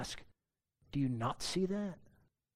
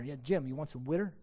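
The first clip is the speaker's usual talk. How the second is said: put-on Philadelphia accent; 2 semitones lower, faster than usual. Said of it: "There's no arguing with that guy".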